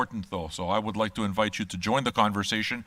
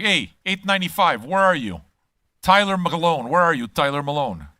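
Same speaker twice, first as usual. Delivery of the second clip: louder, a hearty call across the room; 3 semitones higher, 4 dB louder than usual. Pretend. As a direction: hail the newcomer like a host. Calling out to a new patron.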